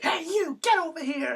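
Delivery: high retold call; calling someone over. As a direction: imitate hailing someone from across the room. Nikki calling a man over.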